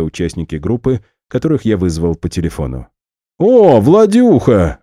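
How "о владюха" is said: high, loud, slow happy cry; joyful exclamation. Acted. Max happily greets his friend as he walks in. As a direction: greet your friend with a burst of joy. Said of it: "радостно воскликнул Макс".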